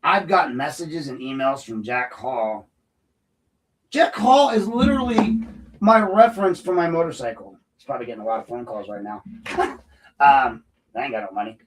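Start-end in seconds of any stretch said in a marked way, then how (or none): 3.9-7.6 high-pitched disbelief; indignant, astonished protest; incredulous outburst. Real, not acted. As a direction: exclaim it high, can't believe it. Incredulous outburst about Jack Hall.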